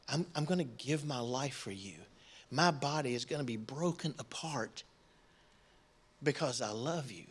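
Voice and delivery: soft, low, solemn pledge; tender promise. Acted. Jesus to his apostles at supper, tender promise. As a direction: speak gently, pausing between phrases.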